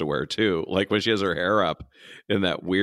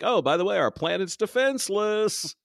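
high sing-song mockery, slowing at the end; mock casual announcement; 12 semitones higher than usual. Host mocking the leader admitting her planet is defenseless, high mock announcement. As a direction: toss it out high, then stretch the last word. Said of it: "It's like".

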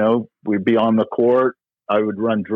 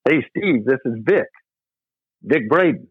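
a hint of Vic's jovial phone voice, a touch higher; jovial greeting; 3 semitones higher than usual. Retelling Vic's phone call to the club, mildly jovial. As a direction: lightly imitate a cheerful old friend calling. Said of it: "here's his jovial voice".

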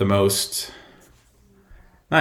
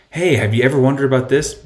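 bright, pushy sales pitch, pitched up; mock the eager cold pitch; salesy pitch voice; 4 semitones higher, 4 dB louder than usual.

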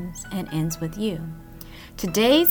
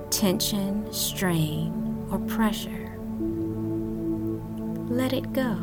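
guided meditation. Acted. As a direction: guide them gently into calm.

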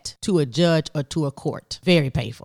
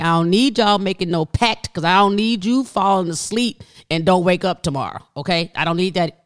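urgent pleading; 2 semitones higher, 4 dB louder than usual. Retold or imitated. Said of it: "I'm like".

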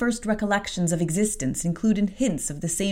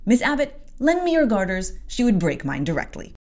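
urgent demand; 5 semitones higher than usual. Acted. Bessie asks for garters.

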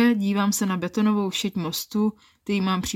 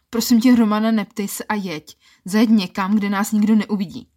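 urgent plea; 5 dB louder than usual. Acted. Urgent plea to drive somewhere private.

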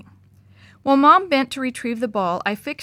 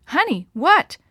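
high, loud frightened cry; panicked yell; 7 semitones higher, 5 dB louder, slower than usual. A narrator's reading. Dad running to his screaming wife, panicked high yell. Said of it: "he yelled, his voice scratchier and higher".

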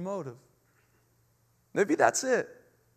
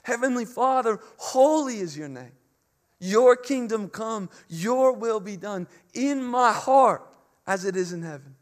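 prayerful; 3 dB louder than usual. Pretend. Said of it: "sound like that of Jesus".

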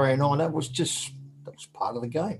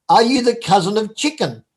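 laughing; 5 semitones higher than usual. Retold or imitated. Funny question while laughing.

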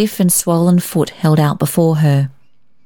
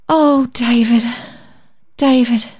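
tender cry; 7 semitones higher than usual. A narrator's reading. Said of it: "as Rosemary Drew had cried".

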